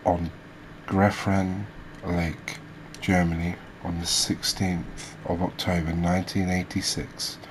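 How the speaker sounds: measured read-out of fish facts; reading aloud. Real, not acted. Host reading species facts to viewers, informative read-aloud. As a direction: read it out like a documentary script.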